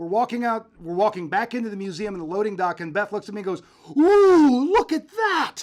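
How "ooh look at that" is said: thrilled, very high, very loud, drawn out. Retelling how the co-host reacted on spotting a machine: imitating Beth's excited voice. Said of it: "she got so excited".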